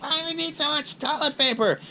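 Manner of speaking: high-pitched mock wife voice; imitated exasperated wife. Wife questioning the toilet paper stockpile, high mock complaint. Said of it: "the wife's like".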